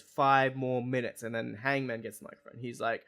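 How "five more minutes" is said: a mock crowd-pleasing plea; slow, pointed callout; slow, louder mock demand. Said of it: "picks up the microphone and goes".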